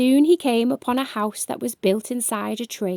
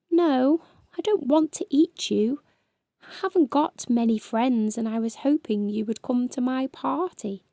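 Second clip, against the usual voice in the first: shy voice; 2 semitones higher than usual. Acted. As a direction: admit it shyly, voice trailing off. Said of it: "said in a shy voice".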